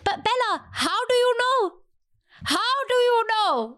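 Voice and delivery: high, slow, pleading; mock pleading. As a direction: plead with her, drawn out. Mock pleading to character Bella.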